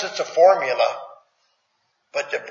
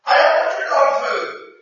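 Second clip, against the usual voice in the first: sulky dismissive; 8 semitones higher than usual. Retold or imitated. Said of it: "throw it at table and say".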